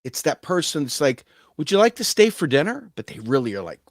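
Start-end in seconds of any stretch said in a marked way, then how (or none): 1.6-2.9 high, bright-toned mock-polite offer; polite invitation. Host offers a guest dinner, high and hammed-up polite. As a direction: lay the fake politeness on thick.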